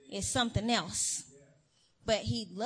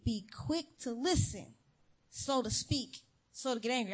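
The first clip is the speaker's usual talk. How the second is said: preacher calmly reciting the verse to herself; calm reminder. Shown as a demonstration. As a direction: say it to yourself, settled now. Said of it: "Let them talk".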